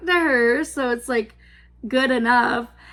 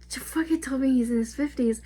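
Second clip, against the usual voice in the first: disbelieving whisper; 4 dB quieter than usual. Real, not acted. Aside in disbelief.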